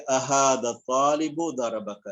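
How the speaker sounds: slow, deliberate Arabic reading; slow model reading. Shown as a demonstration. Teacher reading the sentence slowly for students. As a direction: read it out slowly for the class. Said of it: "تو اس کو یوں پڑھیں گے".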